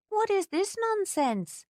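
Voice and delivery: a shocked, drawn-out scold; appalled. A narrator's reading. Housekeeper hearing Kate ignored her health, appalled and slow.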